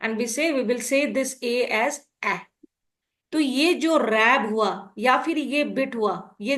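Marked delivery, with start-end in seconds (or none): 1.4-1.7 "a" said as the short A of "rab"; short phonics "a", as in cat; short vowel sound. Shown as a demonstration. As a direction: sound out "a" as a short vowel, not its letter name. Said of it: "short sound, हम इसके ऊपर ऐसे करके".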